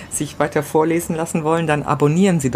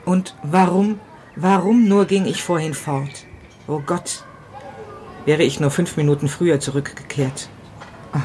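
grieving first-person monologue, read with pauses; dramatic story reading. A narrator's reading. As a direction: read it like a widower talking to himself.

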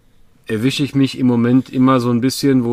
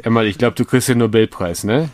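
sarcastic; faster than usual. Acted. Mock praise for obvious advice.

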